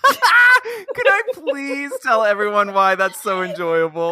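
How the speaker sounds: laughing through the words; can barely get it out for laughing. Real, not acted.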